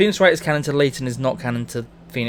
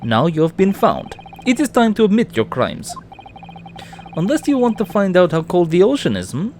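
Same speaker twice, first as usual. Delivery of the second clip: put-on Russian accent; 3 semitones higher than usual. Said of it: "if you wanna do a Russian accent".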